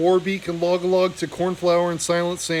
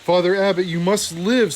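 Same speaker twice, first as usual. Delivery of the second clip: a gruff, choked plea, a bit louder; gruff, choking; 3 dB louder than usual. Acted. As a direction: plead with the dying abbot, choking back tears. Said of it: "said Constance in a gruff, choking voice".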